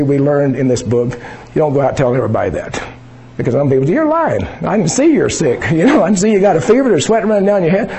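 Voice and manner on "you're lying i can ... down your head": high, scoffing voice of a doubter; mocking nonbeliever; mock skeptic. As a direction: sneer at the believer like a skeptic. Mocking critics of confession.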